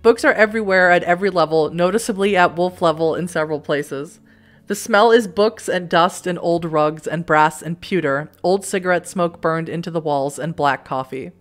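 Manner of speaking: measured storybook narrator; story narration. A narrator's reading. Narrator reading the dark alley scene to the player, measured narration. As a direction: read it like an unhurried audiobook. Reads game narration aloud.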